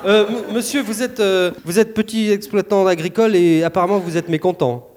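lightly voiced field reporter; war correspondent. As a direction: interview a farmer like a reporter. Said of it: "Reporter de guerre".

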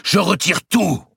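high, loud, slow proclamation; defiant retraction. A narrator's reading. Grand master withdraws his confession before judges, defiant retraction. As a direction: cry it out deliberately.

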